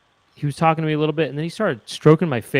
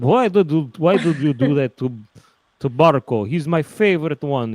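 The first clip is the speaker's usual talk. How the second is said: mock-angry Lenin, a bit louder; 5 dB louder than usual. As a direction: grumble like a woken-up Lenin. Lenin voiced in silly story.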